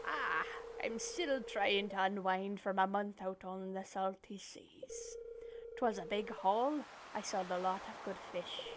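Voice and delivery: slow, lightly played old sailor boasting of his catch; easy pirate drawl, spinning a sea tale; Willy pirate voice. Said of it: "I'm gonna give him a pirate voice".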